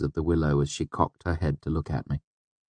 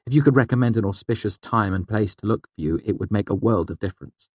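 starts higher, gently trails off on "difference"; trailing off questioningly; 5 semitones higher than usual. A narrator's reading. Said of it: "I trailed off gently, making it a question".

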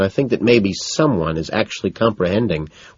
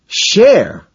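higher, louder baffled echo; confused echo; 12 semitones higher, 7 dB louder than usual. A narrator's reading. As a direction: bounce the word back baffled. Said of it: "I ask back, confused".

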